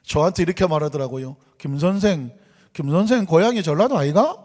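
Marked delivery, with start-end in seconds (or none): 1.6-4.4 imitated Gyeongsang dialect question; Gyeongsang accent. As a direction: lightly quote a colleague in Gyeongsang intonation. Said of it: "경상도 분이었어요".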